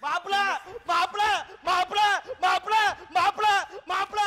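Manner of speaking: repeated rising calls; urgent calling out. Acted. Father-in-law running to the groom, calling urgently. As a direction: call out in short rising bursts.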